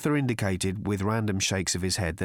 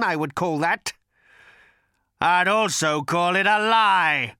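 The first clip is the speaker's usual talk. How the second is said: feral snarling; 6 semitones higher, 3 dB louder than usual. A narrator's reading. Agrajag voiced in story.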